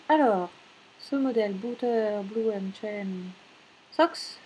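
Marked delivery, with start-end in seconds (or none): 1.5-4.4 slow, failed attempt at a German accent; German name in a French accent; lost German accent. Real, not acted. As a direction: try German and miss the accent. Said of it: "j'ai perdu mon accent allemand".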